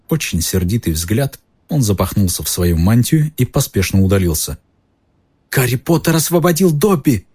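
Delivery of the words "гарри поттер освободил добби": high squeaky elf voice; shrill squeak. A narrator's reading. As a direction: squeak it out with joy. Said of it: "пронзительно пискнул эльф".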